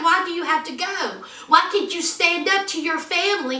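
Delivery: retold pleading questions. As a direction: imitate an upset girlfriend demanding why. Acts out Anna pleading.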